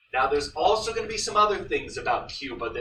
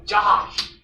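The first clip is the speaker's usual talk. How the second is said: sudden recall; 7 dB louder than usual. Real, not acted. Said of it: "That's what it was".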